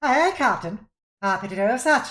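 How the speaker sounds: lightly voiced pirate mate agreeing; eager first mate. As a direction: snap off a keen reply to the captain. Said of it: "she nods and goes".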